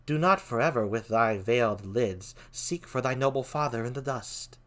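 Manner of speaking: soft, low queen. Acted. Queen urging Hamlet to stop mourning his father, very softly. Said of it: "like, a very soft voice".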